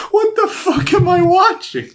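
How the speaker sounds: high, laughing what-the-fuck; laughing disbelief. Retold or imitated. Laughing at the absurd on-screen text, high and incredulous. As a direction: crack up mid-question in disbelief.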